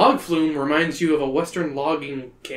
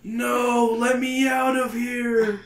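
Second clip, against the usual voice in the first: mild scream; 8 semitones higher, much slower than usual. Acted. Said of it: "You scream".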